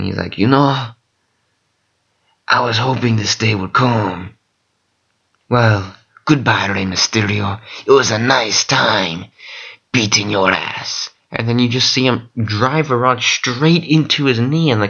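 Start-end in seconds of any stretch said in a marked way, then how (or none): 0.4-11.1 lightly put-on Hispanic accent villain; a hint of a Hispanic accent, gloating. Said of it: "Hispanic accent and everything".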